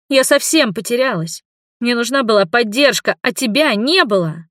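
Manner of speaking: upset daughter. A narrator's reading. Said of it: "Никак не успокаивалась гостья". (расстроенная дочь, выше и громче)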